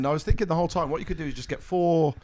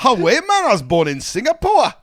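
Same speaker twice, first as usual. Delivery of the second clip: mock Northeast accent; 8 semitones higher, 6 dB louder than usual. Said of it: "didn't sound like it from your two attempts".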